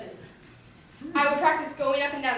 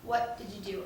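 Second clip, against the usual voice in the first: stern mom; 4 semitones lower, 11 dB quieter, faster than usual. Retold or imitated. Mom asking sternly, low.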